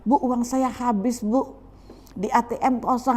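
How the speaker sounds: high-pitched acted money complaint; mock pleading excuse. Member tells pastor the money is gone, mock pleading.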